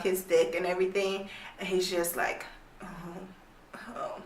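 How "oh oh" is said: mock moaning.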